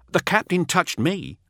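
high, anxious report; nervous underling. Acted. Teth reporting his losses to Null, high and anxious. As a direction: rush out the bad news. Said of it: "says Teth".

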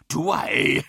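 mocking little laugh in the question; lightly amused villain's question; laughing retort. A narrator's reading. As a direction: toss it back with amusement. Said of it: "laughed Horus".

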